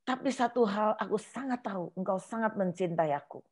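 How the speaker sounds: soft, tearful plea to God; a hushed, tearful plea to God; tearful prayer. Retold or imitated. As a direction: pray quietly through tears, pleading. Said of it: "Terus saya nangis".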